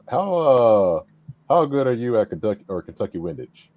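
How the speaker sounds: muffled, as if through a hand. Real, not acted. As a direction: speak with the mouth covered. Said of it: "Sorry, you're a little bit muffled".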